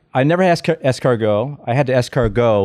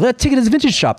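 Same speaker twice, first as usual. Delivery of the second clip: much higher mock girlfriend voice; imitated girlfriend; 10 semitones higher, faster than usual. Guest mimics girlfriend keen on vintage shopping, high imitation.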